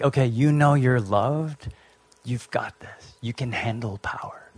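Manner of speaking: softly, fading down into a whisper; gentle whisper. Retold or imitated. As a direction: reassure him quietly, almost breathing it. God's voice sending Jesus out.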